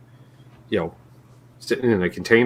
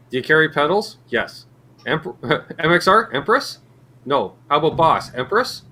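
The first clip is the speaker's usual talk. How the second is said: clerk skit; 4 semitones higher than usual. Acted.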